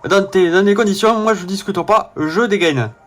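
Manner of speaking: put-on southern French accent, game character; accent du sud. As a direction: play the line with a southern French twang. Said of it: "faire l'accent du sud au Mascas". (accent du sud joué)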